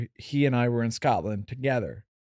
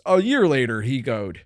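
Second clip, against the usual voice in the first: lightly put-on narrator, dropping at the end; a hint of storybook narrator, falling away; 3 semitones lower than usual. Comic quoting a song's narrator, mild narrator voice. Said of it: "And then narrator voice".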